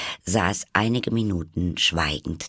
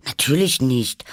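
higher, louder ready answer; quick reply; 7 semitones higher, 5 dB louder than usual. A narrator's reading. Alice answers about the year, quick. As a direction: answer promptly in a high voice. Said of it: "antwortete Alice schnell".

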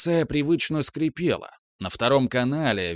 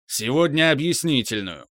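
angry boss; 2 semitones higher than usual. Acted. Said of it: "рявкнул Евгенич".

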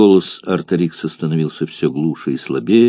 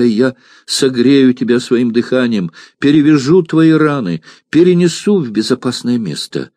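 broken cry; 4 semitones higher than usual. Acted. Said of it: "кричала прерывающимся голосом".

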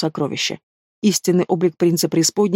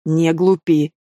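shouted; much slower than usual. A narrator's reading. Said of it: "выкрикнул".

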